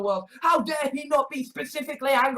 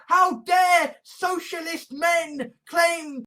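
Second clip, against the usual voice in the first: higher, slow, shouted parody of entitlement; mock indignation; 5 semitones higher, 3 dB louder, slower than usual. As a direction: draw it out as an affronted complainer. Imitating entitled rich women's complaint.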